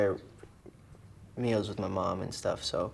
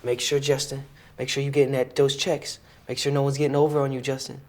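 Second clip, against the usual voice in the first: Mayweather impression; 3 semitones higher, 5 dB louder than usual. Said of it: "He's always like".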